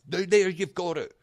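loud, high-pitched griping; heated outburst. Real, not acted. Guest launches into gripe about roads, heated outburst. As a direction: burst out in exasperation, high and loud.

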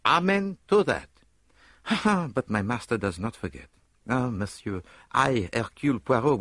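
fervent Belgian detective, then brooding; detective pledging service, then musing darkly; Poirot's voice. Acted. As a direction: swear loyalty, then sink into doubt.

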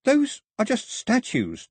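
high, slow call across a distance; calling back. A narrator's reading. Daphne answering Mao across the dark, calling back. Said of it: "Daphne called back".

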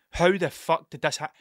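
retold stammer, breaking off and restarting; stuttering disbelief. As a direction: stumble over the question in mock shock. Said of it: "I was stuttering like".

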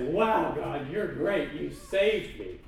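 slow, awed praise. Acted. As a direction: marvel slowly at God. Worshipper's awed response.

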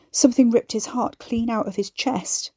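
hoarse, rasping voice; rasped. Acted. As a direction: rasp it out raw. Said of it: "Guy rasped".

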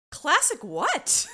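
high, loud, disbelieving question; incredulous retort. Retold or imitated. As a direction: throw it back in loud, indignant disbelief. Acting out own incredulous reply.

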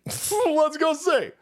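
slow, high laughing sing-song, stretched out. Pretend. Taunting viewers, slow laughing sing-song. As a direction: tease it slowly through a laugh.

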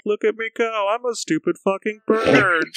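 high squawky cartoon bird. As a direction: chirp it out like a silly cartoon bird. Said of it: "with a bird voice being like".

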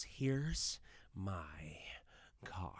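unvoiced menacing whisper; creepy whisper. Joker to the mob, playing his card, whispered. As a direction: hand over the card in a whisper. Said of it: "and he goes".

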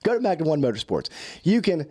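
throat a bit clogged, clearing it; frog in throat. Real, not acted. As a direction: talk through a slightly froggy throat. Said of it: "I got a little frog in my throat".

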